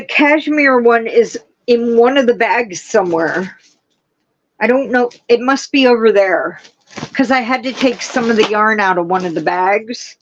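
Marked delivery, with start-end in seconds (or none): none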